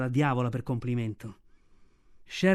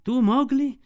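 proud naming; 8 semitones higher, 5 dB louder, slower than usual. Acted.

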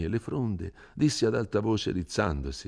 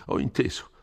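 peevish sigh; 6 semitones higher than usual. A narrator's reading. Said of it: "sospirando stizzosamente".

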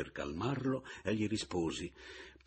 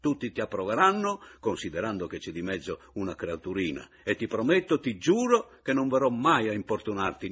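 sarcastic; 4 semitones higher, 7 dB louder than usual. Acted. Sarcastic blessing of the marriage.

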